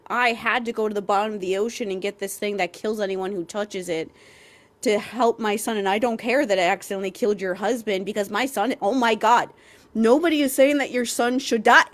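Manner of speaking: mocking, shrill-sounding overdramatic plea; loud, rising overdramatic mother; overdramatic mom.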